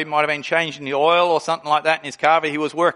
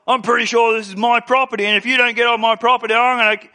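threatening; 4 semitones higher, faster than usual. Retold or imitated. Big man threatening with handle.

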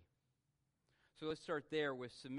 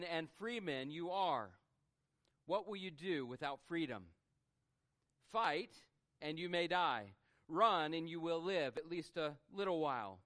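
Wallace's rallying speech; 2 semitones higher than usual. Retold or imitated. Pastor retelling Braveheart speech to congregation, rousing and lightly voiced. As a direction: preach Wallace's speech to scared clans. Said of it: "he begins to speak to them".

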